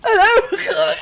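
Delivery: high, loud sing-song hello; loud mock greeting. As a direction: shout hello high at the enemy. Popping out at enemy.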